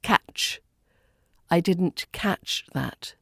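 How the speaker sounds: "catch" ending in a crisp, sharp ch; sharp final CH. Shown as a demonstration. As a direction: slowly model "catch" with a sharply released ch. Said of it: "should be pronounced sharply".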